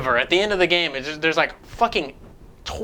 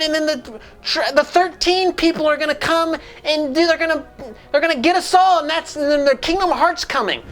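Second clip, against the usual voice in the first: mocking panicked characters; 10 semitones higher than usual. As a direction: rattle off the doom like a frantic cartoon. Imitating cutscene panic.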